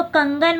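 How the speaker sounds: कंगन said slowly, the nasal अंग clearly sounded; slow careful pronunciation. Shown as a demonstration. Teacher showing students the anusvara sound in कंगन, slowly. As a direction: draw out कंगन so the ng is heard. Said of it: "आप उच्चारण करके देखेंगे".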